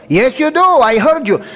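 insisting. Retold or imitated. Doctor insisting to the student he heard him crying. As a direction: press the point, pitch rising.

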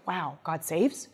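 a hushed, humbled Habakkuk; awed realization. Retold or imitated. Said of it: "he's like".

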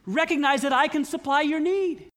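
a hint of a gentle divine voice; God's voice. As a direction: speak as God reassuring his child. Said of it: "I see God saying".

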